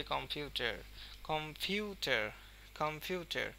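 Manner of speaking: কম্পিউটার said carefully, heavy stress on পিউ; stress on second syllable. Shown as a demonstration. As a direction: press পিউ in কম্পিউটার, ease off কম and টার. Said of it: "পিউ এর উপরে কিন্তু অনেক stress". (কম্পিউটার-এ পিউ-তে জোর, কম আর টার হালকা)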